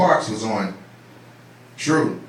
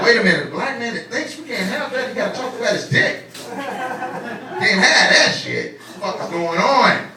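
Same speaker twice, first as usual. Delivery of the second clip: lightly imitated higher-pitched objection; imagined TV network reaction; 5 semitones higher than usual. BET objecting to a thinking black comic, mock protest. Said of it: "They're like".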